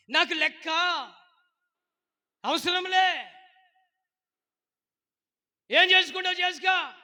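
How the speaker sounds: high, very loud defiant shouting; acted pig-headed back-talk at full volume; stubborn defiance. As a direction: shout back like someone who refuses to listen. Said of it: "ఇది మూర్ఖత్వం".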